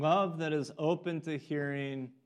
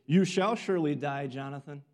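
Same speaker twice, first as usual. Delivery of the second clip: harsh reply; 5 dB louder than usual. Retold or imitated. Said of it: "Saul replies very harshly".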